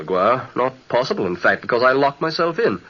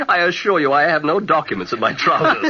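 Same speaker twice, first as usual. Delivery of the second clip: laughing; 3 semitones higher than usual. Acted. Laughs at being called heir.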